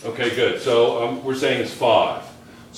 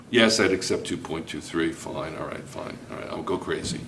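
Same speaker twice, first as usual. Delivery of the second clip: much softer, trailing into a whisper; mock grudging mutter; 8 semitones lower, 10 dB quieter than usual. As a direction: grumble it under your breath, giving in. Teacher mocks a grudging grader.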